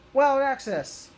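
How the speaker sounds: loud, high heroic battle cry; shouted transformation call. Retold or imitated. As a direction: yell it like a Ranger morphing. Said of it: "And he goes".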